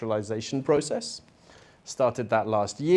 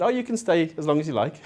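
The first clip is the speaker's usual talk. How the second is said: laughing mock quote; 5 semitones higher, faster than usual. Boss's empty promise, retold ironically.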